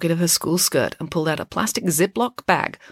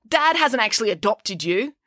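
higher-pitched, testy correction; snappy retort; 7 semitones higher than usual. A narrator's reading. April telling Loretta she isn't adopted, snappy. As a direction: put her in her place, pitched up. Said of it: "snapped April".

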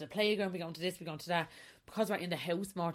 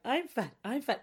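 inner critic; 5 semitones higher than usual. Retold or imitated. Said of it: "walk on and be like".

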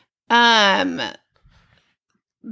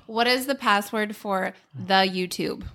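mock quote of husband. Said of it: "You called me".

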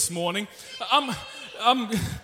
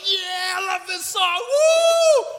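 higher, whooping fan of the song; excited churchgoer; 7 semitones higher, slower than usual. Retold or imitated. Pastor mimicking the congregation's cheers, excited. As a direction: cheer like the whole church loved it. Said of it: "everyone used to be like".

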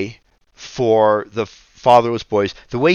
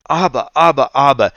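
higher, louder imitation of a little boy calling for his father; child crying out; 4 semitones higher, 4 dB louder, faster than usual. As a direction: wail it like a restless toddler on a long flight. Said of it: "like that".

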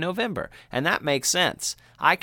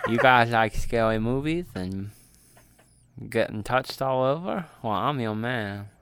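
jack o lantern voice. Acted. Creepy persona joke to listeners.

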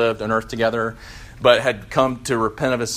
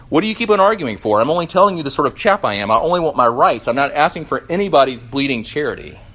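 exasperated outburst, much higher and louder; angry ghost; 3 semitones higher, 4 dB louder than usual. Acted. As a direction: lash out at the bright man. Ghost argues with bright man.

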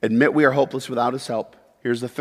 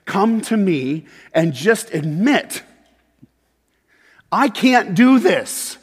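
tender plea; 7 semitones higher, 3 dB louder, much slower than usual. Acted. Voicing Jesus' call in sermon.

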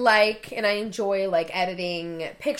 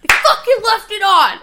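higher, louder mock complaint; imitating angry rant; 11 semitones higher, 12 dB louder than usual. Wife imitating her husband grumbling about his new jeans, mock angry. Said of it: "he's just fucking pissed".

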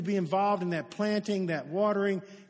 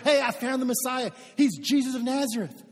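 mildly excited, higher-pitched announcement; all excited; 4 semitones higher, 4 dB louder than usual. Acted. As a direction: share big news with a best friend, a touch excited. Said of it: "He's all excited".

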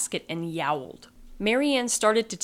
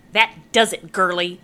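mock angry witch; 8 dB louder than usual. A narrator's reading. Witch loses patience, threatens.

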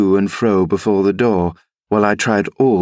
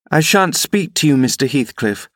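put-on high, girlish refusal; defiant young lady; 6 semitones higher than usual. Young lady refusing to speak to the rider, high and defiant.

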